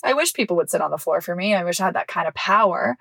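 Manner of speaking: quick sarcastic wish; fast, offhand mock envy. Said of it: "Sarcastically, obviously, guys".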